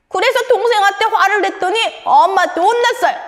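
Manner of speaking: cross little character building to an outburst; angry 내 마음이. Acted. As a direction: whine and fume like a wronged child. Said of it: "오늘 내 마음의 표정이 또 안 좋은".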